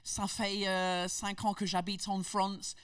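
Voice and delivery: high, put-on English tourist French; exaggerated Brit speaking French; heavy English accent in French. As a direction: mangle the French like an English beginner. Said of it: "cet accent de merde".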